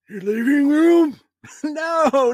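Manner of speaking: put-on high creaky old grandpa. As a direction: play a confused old grandpa. Grandpa ghost voice.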